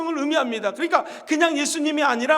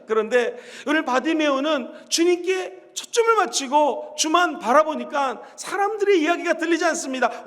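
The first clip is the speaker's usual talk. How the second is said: normal talking voice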